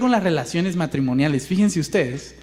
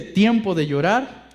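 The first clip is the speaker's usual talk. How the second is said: slow scripture reading; 3 semitones lower, slower than usual. Shown as a demonstration. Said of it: "Voy por la última, que dice".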